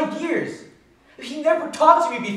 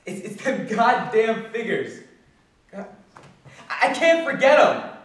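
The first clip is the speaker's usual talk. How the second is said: loud, stammering frustration; exasperated outburst; 3 semitones higher, 6 dB louder than usual. Acted. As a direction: burst out, tormented by the numbers. Tormented by the figures.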